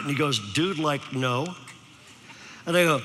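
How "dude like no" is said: low, soft mock Valley dude; Valley teenager. Sophomore admits not reading it, soft Valley imitation. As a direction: imitate a sheepish Valley kid, dropping low. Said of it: "you know how they talk".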